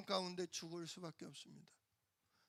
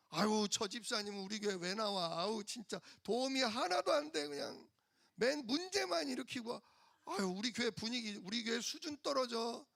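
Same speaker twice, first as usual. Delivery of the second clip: mock complaining; 4 semitones higher than usual. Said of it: "그러지 마시고".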